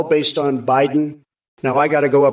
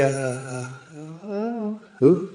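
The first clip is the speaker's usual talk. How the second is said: mocking stammer; 7 dB quieter, much slower than usual. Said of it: "you want her to sound like a goddamn dying cat".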